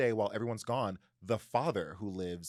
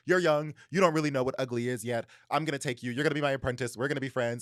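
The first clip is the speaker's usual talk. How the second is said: emphatic, raised-voice mock lecture; admonishing; 3 semitones higher, 6 dB louder than usual. Monster lecturing the boy he finds, mock admonishing. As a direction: lay down the law to a youngster. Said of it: "he's very, like, admonishing to the boy".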